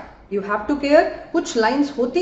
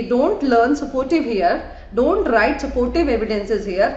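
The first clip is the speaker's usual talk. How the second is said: slow emphatic warning; much slower than usual. Shown as a demonstration. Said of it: "my suggestion will be".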